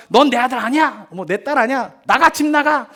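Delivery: mock angry parental dismissal; parent losing temper. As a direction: mimic a parent throwing the child out. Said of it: "분을 못 이기시는 분들이". (분을 못 이기는 부모 흉내)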